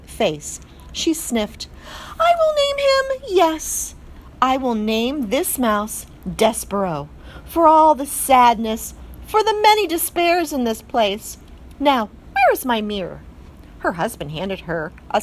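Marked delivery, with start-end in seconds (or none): 2.2-13.2 high, loud mock sobbing in French accent; tearful French mother. A narrator's reading. Mother mouse naming her son while sniffling, hammed-up tears. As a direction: weep it theatrically, then recover.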